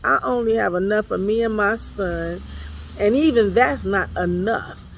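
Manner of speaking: preacher voicing the widow's desperate protest. Preacher to congregation, pleading as the widow.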